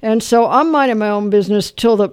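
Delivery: normal talking voice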